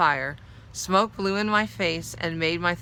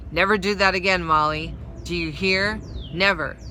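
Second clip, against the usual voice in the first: firm, louder scolding command; angry warning; 4 dB louder than usual. Acted. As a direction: warn her sternly, a touch of anger. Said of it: "His face dark with anger".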